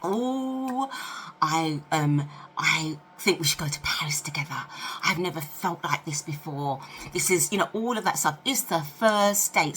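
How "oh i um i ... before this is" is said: breathless lover. Retold or imitated. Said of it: "they're like".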